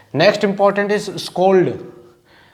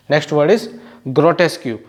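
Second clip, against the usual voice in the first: slow dictation; much slower than usual. Shown as a demonstration.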